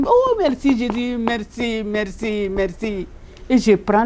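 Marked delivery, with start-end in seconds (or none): 0.1-0.8 joyful thanks. Retold or imitated. Thanking at the tabernacle. 0.8-3.1 hushed prayer. Retold or imitated. Prayer of thanks at tabernacle.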